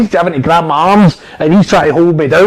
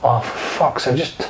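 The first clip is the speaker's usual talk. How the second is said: quiet, resigned oh for fuck's sake; muttered curse; 6 dB quieter than usual. Retold or imitated. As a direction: mutter it like you spilt juice. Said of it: "the way I've just spilt that juice".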